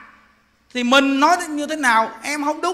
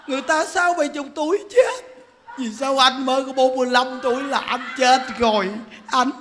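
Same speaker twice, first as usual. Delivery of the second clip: mildly wailed mock lament; a light put-on widow's plaint; imitated weeping widow. Widow asking her dead husband why, mock tearful. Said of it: "bà khóc quá trời khóc".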